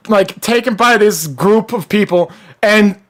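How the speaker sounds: strained, worn-out voice; hoarse voice. Real, not acted. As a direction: voice going hoarse. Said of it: "God, I'm losing my voice".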